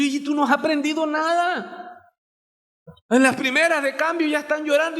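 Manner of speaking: scolding parent. Retold or imitated. Parent scolds children who cry at the first setback, mock shout. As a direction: bark it at the kids like a fed-up father.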